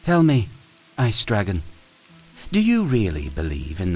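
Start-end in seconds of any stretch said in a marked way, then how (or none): 0.0-0.5 high loud menacing opener; queen interrogating the captive; sharp demand. Acted. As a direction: lean in and demand.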